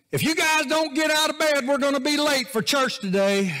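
put-on high, loud yell at the kids; mock screaming parent. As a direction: scream them out of bed, hammed up. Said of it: "you start screaming".

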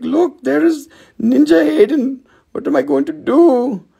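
high, excited starstruck gush. Retold or imitated. Retelling meeting a famous fan, high and starstruck. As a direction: gasp it like you're meeting a star. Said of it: "I was so starstruck".

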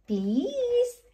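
high begging please; Peppa pleading. A narrator's reading. Little Peppa begging Granny and Grandpa, high and pleading. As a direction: plead sweetly like a little girl. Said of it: "asked Peppa".

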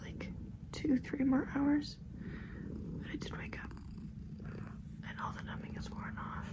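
hushed early-morning whisper. Real, not acted. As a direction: whisper it half awake.

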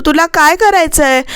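mildly acted annoyed challenge; retold irritation. Makarand snapping back at Sweety's questions, mildly irritated. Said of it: "Makarand चिडून उठून म्हणतो".

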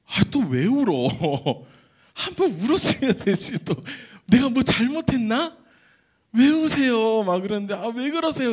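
put-on loud, bewildered young man asking why; baffled outburst. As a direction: sound thrown off balance by the weeping. Baffled as the missionary weeps.

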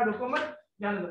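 "रोको मत" rising together, then a short falling "जाने दो"; pause after मत. Shown as a demonstration. Third courtier reads the order, pausing after मत. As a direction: join मत to रोको and break before "जाने दो". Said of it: "तीसरे ने पढ़ा".

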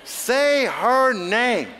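slow, drawn-out, laughing; laughing command. Real, not acted. Preacher urging the congregation to say her name, laughing. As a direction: stretch it out through a laugh.

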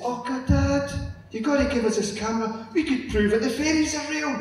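put-on high, childish begging voice, a bit fast; pleading little girls. Girls begging their father for his camera, high childish pleading. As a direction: whine like a kid desperate for the camera.

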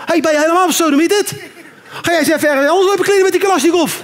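mock angry shopper; indignant rant. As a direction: tell him off at speed. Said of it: "zoiets hebt van".

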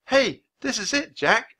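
high-pitched, excited outburst; blurting out. A narrator's reading. Girl tells Jack she has found it, blurting out. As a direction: blurt it out as a sudden discovery. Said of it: "Annie blurted out".

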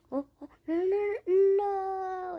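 real dismay as the jeep falls off; panicked no. Real, not acted. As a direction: cry out as it slips away. Character falls off.

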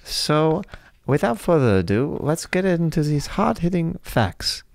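put-on little kid voice, wobbly accent; eight-year-old kid. Kid host introducing a fifty-year-old friend, put-on child voice. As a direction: play a child podcast host earnestly. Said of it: "You went from an eight-year-old".

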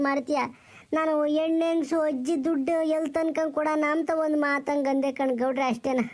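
put-on old village grandmother wailing for her lost husband; old woman's lament. Old granny crying to the village for her missing husband, wailing lament. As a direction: plead and wail like a grieving old granny.

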